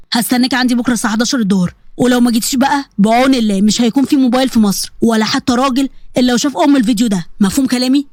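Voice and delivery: lightly voiced sly male caller; menacing blackmailer. Blackmailer to the girl who hung up, sly menace. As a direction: coax her with a hint of threat. Samir gives his ultimatum.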